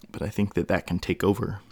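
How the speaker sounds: talking through hiccups. Real, not acted. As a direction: hiccup interrupting the words. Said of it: "Sorry, I got the hiccups".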